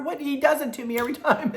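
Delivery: fast, laughing through the words; giggling it out quickly. Real, not acted. Mother laughs telling how Sean always gets her. Laughing at son-in-law's greeting.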